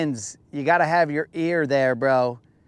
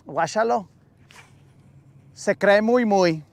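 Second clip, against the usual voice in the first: contemptuous put-down of a show-off; mocking hater tone; 3 semitones higher than usual. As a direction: sneer the whole phrase out at a show-off. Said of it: "check this guy out. He thinks he's all bad".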